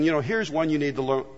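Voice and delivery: soft, quiet urging; a hint of God's whisper; softly voicing the Spirit's nudge; gentle inner voice. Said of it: "the Spirit of God help you by speaking".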